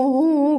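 mock sobbing sounds. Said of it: "असं हू".

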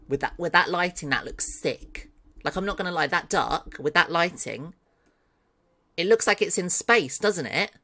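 gushing, pitch lifted; carried away with delight; real excitement. Real, not acted. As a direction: gush excitedly over how it looks. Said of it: "Sorry, I'm getting excited".

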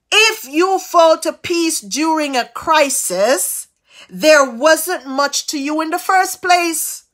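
slow, weighty scripture reading; slow emphatic reading. Acted. Preacher reads the proverb to the congregation, slow and weighty. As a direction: lean on each word slowly. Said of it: "It says".

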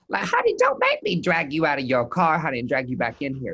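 hammed-up telling-off, pushed loud then easing; mock threat. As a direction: playfully threaten a misbehaving client. Acted scolding of disputing client.

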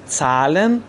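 زالن opening on "ts", as "tsalen". Shown as a demonstration. Teacher giving an example, زالن as "tsalen". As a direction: say زالن with t run into s.

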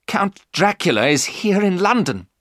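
high, urgent exclamation; alarmed cry. A narrator's reading. Jonathan seeing Dracula in London, crying out high. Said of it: "Jonathan cried".

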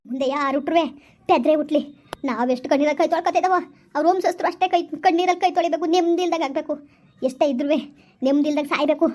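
low, anguished malediction; bitter cursing. Acted. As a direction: heap curses on the wrongdoer. Curses the wrongdoer's whole lineage.

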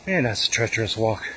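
panting after a steep climb; breathless between words; out of breath. Real, not acted. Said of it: "why I'm out of breath so much".

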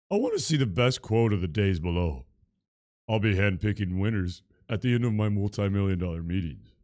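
a lightly voiced smug rich streamer; Shroud's voice. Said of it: "Do it in Shroud's voice?".

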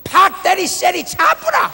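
hammed-up rough Gyeongsang command; Gyeongsang dialect, forceful. Preacher imitating a Gyeongsang speaker ordering someone to stop, loud and rough. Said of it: "들을 때는 ... 다리 몽댕이 하나 부러질 것 같아".

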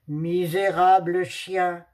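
slow, heavy angry exclamation; furious panther. Acted. Furious panther shouting at Blue Dog. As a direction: spit the insult out like a furious panther. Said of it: "s'écria la panthère furieuse".

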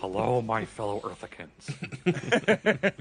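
mock president voice.

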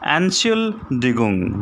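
"Entschuldigung" said slowly and carefully for learners; careful pronunciation. Shown as a demonstration. Teacher shows learners how to pronounce a difficult German word, "Entschuldigung" slow and careful. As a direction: model "Entschuldigung" slowly, each syllable drawn out. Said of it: "listen carefully how to pronounce".

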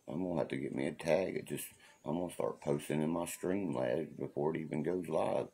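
ordinary talk

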